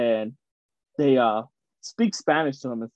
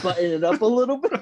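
mock prim formal; 7 semitones higher, faster than usual. Mimics switching to formal Spanish.

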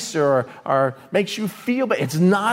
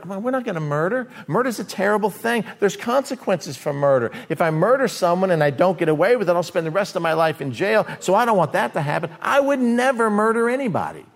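self-righteous believer; 3 semitones higher than usual. Retold or imitated.

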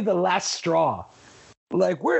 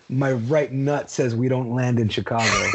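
low-pitched, just-woken announcement; John Candy; 9 semitones lower than usual. Retold or imitated. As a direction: drop way down, as if half asleep. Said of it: "John Candy snoring in his ear".

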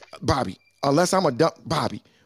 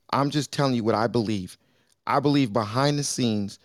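calmer voice; 3 semitones lower than usual. Real, not acted. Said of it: "I'm gonna say it in a calmer voice".

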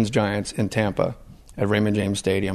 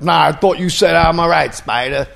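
a hint of a mock tough guy, a bit higher; tough-guy audition voice; 6 semitones higher, 5 dB louder than usual. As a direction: imitate a hopeful actor at audition. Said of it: "to audition was like".

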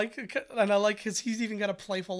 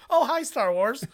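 put-on high, louder kid voice; cheery like a boy answering a phone; little son voice; 6 semitones higher, 7 dB louder than usual. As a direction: son greeting Star Wars on his shoe. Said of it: "And he's like".

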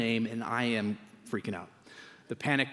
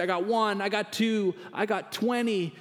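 mock altar-call pastor; 8 semitones higher than usual. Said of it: "he'd say".

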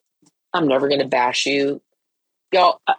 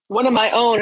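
higher-pitched, mock tearful insistence; retold tearful plea, pitched up; imitating bawling child; 6 semitones higher than usual. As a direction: plead like a crying kid. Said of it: "I mean bawling".

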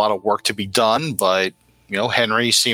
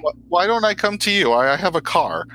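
shaking voice; 8 semitones higher than usual. Acted. Scared caller offers.

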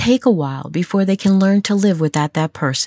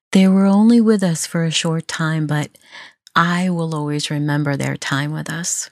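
gently, a touch softer, tender and sincere; soft compassionate voice. Shown as a demonstration. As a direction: say it softly to a grieving parent. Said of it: "in a soft, compassionate voice".

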